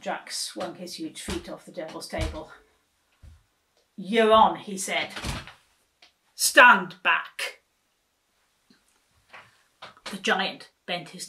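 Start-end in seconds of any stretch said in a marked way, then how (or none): 4.0-4.6 loud. A narrator's reading. Giant accepts the bet. 6.3-7.6 loud. A narrator's reading. Giant before his leap.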